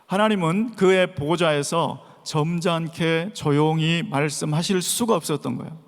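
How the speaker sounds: usual speaking voice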